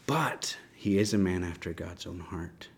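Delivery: soft whisper, no voice behind it. Real, not acted. Teacher to the class about David, whispered. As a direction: breathe it out, hushed and earnest. Repeats key line, hushed for emphasis.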